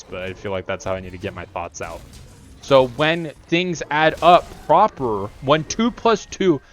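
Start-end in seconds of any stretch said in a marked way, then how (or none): 2.6-6.6 slow, halting, lightly voiced broken English; broken-English robot logic. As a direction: spell out each idea slowly like a simple-minded machine. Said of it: "I don't know why I'm talking like this".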